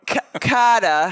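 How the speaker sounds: mock yell with a Boston accent. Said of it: "He used to yell at the".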